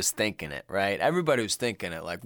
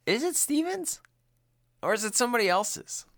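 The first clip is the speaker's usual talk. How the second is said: dramatic gossip; 11 semitones higher than usual. Acted. Teasing soap-opera question.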